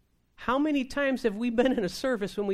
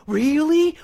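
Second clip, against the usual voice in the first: high, loud, wowed mock question; hammed-up thrilled amazement; imitated eager listener; 7 semitones higher, 11 dB louder than usual. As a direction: play the lady lapping it up. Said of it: "engaged in this".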